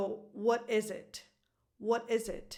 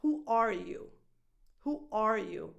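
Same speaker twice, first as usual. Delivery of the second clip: ARE stressed, falling on "you". Shown as a demonstration. Coach returning to the natural stress, ARE stressed. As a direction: say it twice, weight on "are". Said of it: "But the natural stress is".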